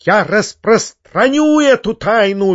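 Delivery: hammed-up shriek; squealing. A narrator's reading. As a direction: squeal it defiantly. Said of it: "визжал Фома".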